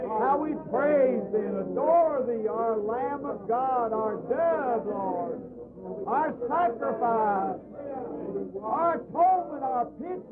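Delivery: praying aloud with rising fervour; fervent prayer. Real, not acted. Preacher praying over congregation, fervent praise. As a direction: lift praise to God, earnest.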